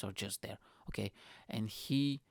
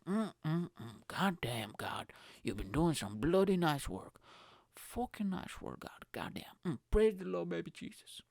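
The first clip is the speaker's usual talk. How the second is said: mock reverent admiration; 4 semitones higher than usual. Admiring man praising God.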